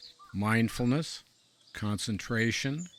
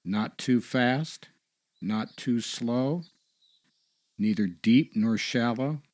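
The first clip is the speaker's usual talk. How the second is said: guided meditation; 6 dB louder than usual. Acted. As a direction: guide them step by step, unhurried and clearly projected.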